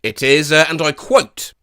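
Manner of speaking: normal talking voice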